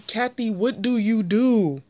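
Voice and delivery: heated, deliberate callout; calling Kathy out. Real, not acted. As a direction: drag out the question at her. Ranting at Kathy on the show.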